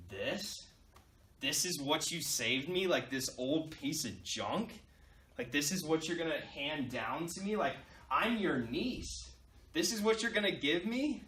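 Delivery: acted disbelief, questions tilting upward; mildly indignant, dragging out the key words; incredulous niece. Disappointed niece questions her inheritance.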